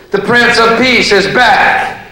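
an angry Jesus back for revenge; pissed-off Jesus. Pretend. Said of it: "he's pissed off".

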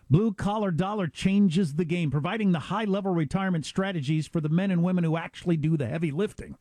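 upbeat, punchy ad read. Acted. Hosts reading a sponsor ad to listeners, upbeat ad read. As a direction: sell the offer to listeners.

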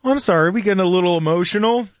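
imitating a smug, fast taunt; mock sarcastic apology. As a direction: lean in and needle her, lightly mocking. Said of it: "he does, like, a lean, like".

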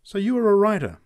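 change of attitude. A narrator's reading. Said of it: "with a change of attitude".

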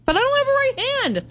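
high, pleading repeat; a hint of an exasperated driver. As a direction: insist on it, high and frustrated. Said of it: "She's repeating the same fact".

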